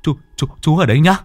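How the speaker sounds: hurried excuse. Acted. Boy flees, excusing himself.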